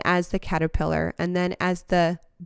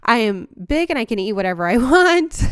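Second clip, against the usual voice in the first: rising, louder mock excitement with a laugh at the end; excited caterpillar; 3 semitones higher, 4 dB louder than usual. Imagined caterpillar boasting about itself, hammed-up excitement. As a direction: gush like a proud little bug. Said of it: "as a caterpillar, it's this like".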